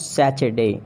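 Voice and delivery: "Saturday" as SA-chur-day; CH sound in "Saturday"; mispronounced Saturday. Shown as a demonstration. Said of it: "not Saturday".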